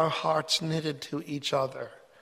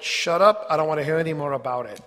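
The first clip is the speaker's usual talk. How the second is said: stern rebuke; 4 dB louder, faster than usual. Retold or imitated. Yahweh silences Moses.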